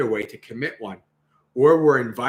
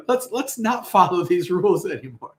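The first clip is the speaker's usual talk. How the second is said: mock dismissive complaint; 7 semitones higher than usual. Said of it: "people are like".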